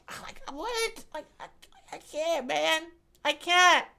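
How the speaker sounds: can't-take-it outburst; exasperated. Real, not acted. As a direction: throw up your hands verbally. Overwhelmed exasperation.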